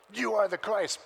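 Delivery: lighter retelling of the confession; milder proud declaration. Retold or imitated. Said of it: "imagine him standing there going".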